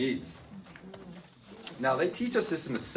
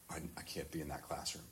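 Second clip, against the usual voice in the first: low, quick, much softer mumble; dejected mumble; 6 semitones lower, 15 dB quieter, faster than usual. Retold or imitated. Troubled boy tells the priest he can't go to class, mumbling softly. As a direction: mutter it like a kid who has had enough.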